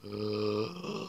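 soft acted gasp. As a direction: gasp softly as the narrated character. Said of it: "I gasped".

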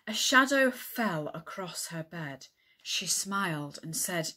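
measured author's story narration; earnest romance narration with deliberate phrasing; novel reading. Acted. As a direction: read a steamy romance passage to an audience.

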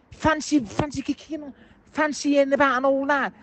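high-pitched, worked-up fan venting; fan's voice climbing in disbelief; exasperated rant. Real, not acted. Furious fan ranting on phone-in.

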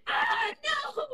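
high shrieking cry of horror; horrified scream. Acted. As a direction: scream at what you've just found. Host finds burnt pet.

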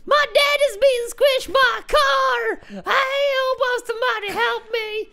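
playful retold panic; mock cry for help. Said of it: "and I shouted".

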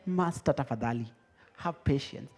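soft, low, submissive plea; quiet servant humbling himself before a master; humble pleading. Acted. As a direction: beg meekly for patience. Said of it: "kama uko na deni ya mtu, nyenyekea".

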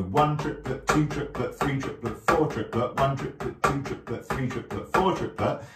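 "one triplet, two triplet" counted out in a steady beat; rhythmic count. Shown as a demonstration. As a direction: count evenly in time, stress on each number. Counting aloud along with the drumming.

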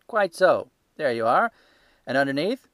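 loud, high-pitched market salesman; a stall keeper showing off his ledger, loud and sure; gruff salesman. Acted. Salesman gloating.

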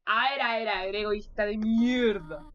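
loud, drawn-out mock insult; loud mock scolding. Real, not acted. Player loudly mocks Toriel, drawn-out loud jeer. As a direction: scold the character loudly and slowly. Mocking the game character loudly.

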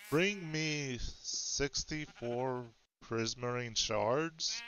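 fireside storytelling. Shown as a demonstration. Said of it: "get into my storytelling voice".

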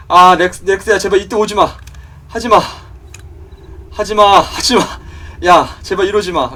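loud, high desperate begging; frantic please-don't cries; panicked pleading. Real, not acted. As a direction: beg it to stay away. Begging the dinosaur not to attack.

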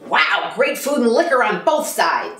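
slow, delighted reply; Clooney reaction. Retold or imitated. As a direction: savor each word with delight. George Clooney quoted reacting warmly.

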